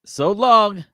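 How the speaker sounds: high, choppy robotic so long; glitchy AI voice. Retold or imitated. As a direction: copy the clipped AI line. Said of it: "the break in between it is wild".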